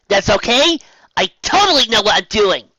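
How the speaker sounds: talking round a mouthful; mumbling, mouth full. A narrator's reading. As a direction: mumble past a wrench. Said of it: "mumbling around the rents in her mouth".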